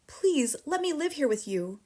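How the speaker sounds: put-on high pleading child; begging. A narrator's reading. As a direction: beg her teacher to keep her.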